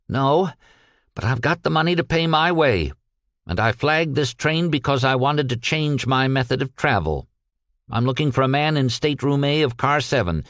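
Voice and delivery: lightly voiced defiant Peck. Peck answering the brakeman who blocks him, lightly voiced defiance. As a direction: stand your ground.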